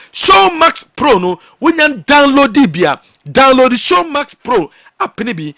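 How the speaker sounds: punchy, loud promo call; loud ad read. Acted. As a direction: sell it big and loud. Ad read, opening shout.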